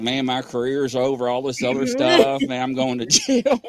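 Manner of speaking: fret, then pitch up in comic despair; lightly acted rising panic; retold panic. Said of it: "I was panicking then".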